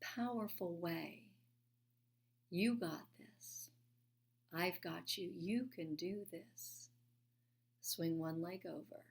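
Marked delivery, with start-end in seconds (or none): 2.5-6.9 gently steady her from within; still small voice. Retold or imitated. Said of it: "the still small voice came in a, in such a powerful way".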